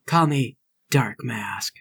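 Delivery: slow, weighty alias reveal; dramatic self-naming. Acted. Larry giving the judge a fighting name, dramatic. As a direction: pause for effect before the name.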